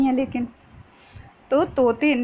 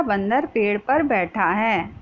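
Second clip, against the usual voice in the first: dictating slowly. Shown as a demonstration. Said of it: "पहला वाक्य बनेगा".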